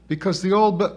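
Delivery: high, loud, cut-off retort; spitting retort. A narrator's reading. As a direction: spit it out till interrupted. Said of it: "spat Sybil".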